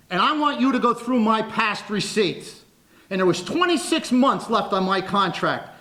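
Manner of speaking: loud, excited public challenge. Real, not acted. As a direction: dare them forcefully in front of everyone. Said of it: "raised his voice and was talking loudly".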